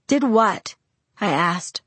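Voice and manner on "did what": voice cracking. A narrator's reading. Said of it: "my voice cracking".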